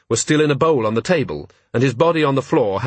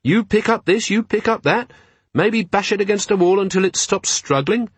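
higher, lilting, pleasant speech; 10 semitones higher than usual. A narrator's reading. Carrot pleasantly suggesting theft to a gnoll, pleasant. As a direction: keep it pleasant and light, pitched up. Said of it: "still speaking quite pleasantly".

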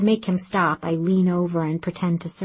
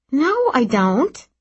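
loud, high, drawn-out protest; defensive denial; 7 semitones higher, 4 dB louder, slower than usual. Acted. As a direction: deny it too loudly, flustered. Denying crush when teased.

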